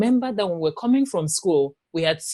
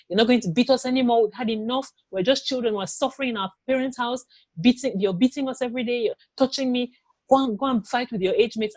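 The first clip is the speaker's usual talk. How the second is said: retold angry outburst; 6 semitones higher than usual. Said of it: "I was so angry".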